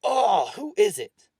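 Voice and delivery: loud, high, drawn-out exasperated outburst; angry. A narrator's reading. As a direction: explode at the class, stretching the words. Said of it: "Mister Smith was angry".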